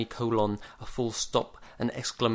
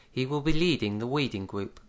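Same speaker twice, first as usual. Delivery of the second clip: high woman voice; 4 semitones higher than usual. A narrator's reading. Miss Bronwyn introduces him.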